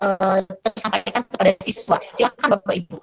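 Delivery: robot voice. Real, not acted. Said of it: "suaranya kayak robot".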